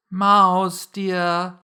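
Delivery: high, drawn-out endearment; coaxing call. A narrator's reading. Alice calls the mouse back, gently coaxing. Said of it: "called softly after it".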